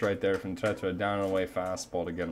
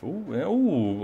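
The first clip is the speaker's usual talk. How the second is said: sudden excited ooh; 7 semitones higher, 5 dB louder than usual. Real, not acted. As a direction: react to a close pickoff. Pickoff excitement.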